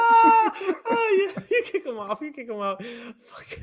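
high, breathless laughter through the words; cracking up, can barely speak; laughing hard. Real, not acted. Host laughing at his own blooper, high and breathless.

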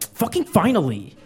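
blurted, laughing relief; relieved cheer. Retold or imitated. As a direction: let it burst out with a laugh. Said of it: "I was like".

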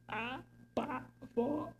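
high, slow frightened cry breaking into laughter; terrified wail. Acted. Prisoner admits his terror to the police chief in a high wail. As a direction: let the fear crack into a laugh. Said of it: "Estou apavorado agora".

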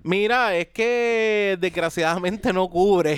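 lightly acted regretful agent, drawn out; retold insurance agent. Agent telling a stranded customer it isn't covered, lightly voiced insurance agent. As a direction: break the bad news slowly. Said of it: "Deme un segundo, déjeme ver su póliza".

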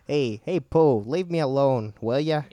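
slightly hammed-up grouchy rabbit. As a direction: lightly play a pestered cartoon grouch. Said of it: "here's my rabbit impression".

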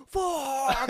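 high, loud blurt of shock; gasp, then blurt it; sudden panicked curse. Retold or imitated. Retelling the brother's sudden panic.

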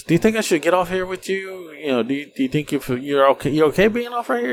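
mock sweet woman's voice; imitating the woman. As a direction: play her asking timidly. Woman voiced in retold story.

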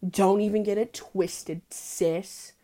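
slow, sassy put-down; slow and sassy, set the boundary; sassy warning. Retold or imitated. She warns Jacob off her knee, slow and sassy. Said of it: "I was like".

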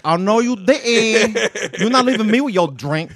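a hint of a Latina accent, loud; lightly voiced Latina accent, slow start. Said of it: "Add the Latino accent".

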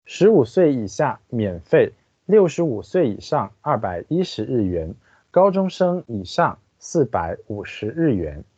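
careful Chinese read-aloud; guide narration. Acted. Translator reading the park guide to listeners, formal narration. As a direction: read out each phrase evenly and distinctly.

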